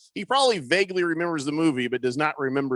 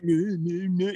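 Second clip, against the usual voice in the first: mock whining; slower than usual. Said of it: "kind of like".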